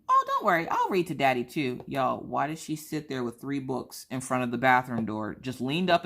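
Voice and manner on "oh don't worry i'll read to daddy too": put-on cheery child voice. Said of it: "She goes".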